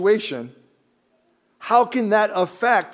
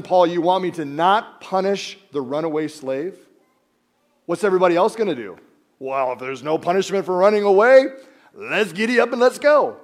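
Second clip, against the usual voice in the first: a touch louder, incredulous complaining; indignant protest; 4 dB louder than usual. Retold or imitated. Philemon objecting to Paul's request, mildly indignant. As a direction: protest to Paul as if it's absurd.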